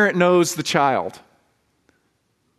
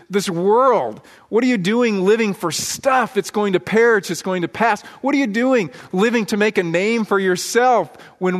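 mildly raised, urgent preaching voice; heavenly host exhorting; 3 semitones higher than usual. Acted. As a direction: plead forcefully as a watcher in heaven. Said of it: "they are screaming at us".

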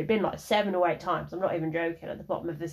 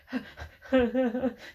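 high, awkward acted giggle; nervous laugh; 6 semitones higher than usual. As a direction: imitate your own nervous titter. Acts out her nervous response.

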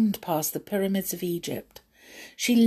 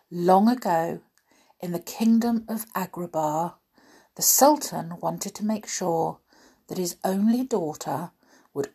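epic fantasy narrator. A narrator's reading. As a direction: tell it like a bedtime fairy tale. Narrates a fairy tale.

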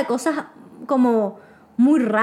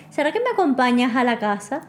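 mock the date's request a little; exaggerated date's voice. Date asking to be walked home, lightly exaggerated. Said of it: "estoy exagerando el tono de voz".

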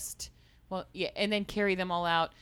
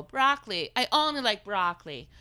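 put-on child voice; 2 semitones higher, 3 dB louder than usual.

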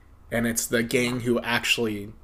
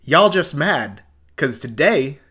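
movie taunt; 4 semitones higher, 8 dB louder, slower than usual. Retold or imitated. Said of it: "The quote is".

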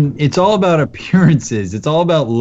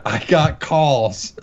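slow, drawn-out mock New York accent; amateur accent; 4 dB quieter, much slower than usual. Call center guy excusing himself to a caller, amateur New York accent. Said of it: "I don't do a great accent".

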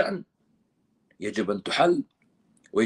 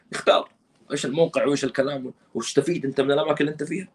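normal talking voice

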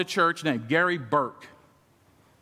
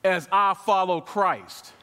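slow quotation; slower than usual. Shown as a demonstration. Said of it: "Another version".

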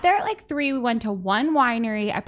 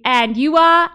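higher, louder mock British accent; 5 semitones higher, 7 dB louder than usual. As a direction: imitate a British host politely asking. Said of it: "But, like, British accent".

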